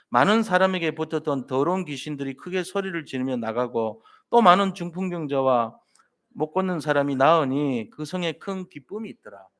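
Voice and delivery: steady, measured Bible reading with the congregation; scripture reading aloud. Acted. Pastor leading the congregation in reading Acts, measured recitation. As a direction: read the verses together in a firm, even voice.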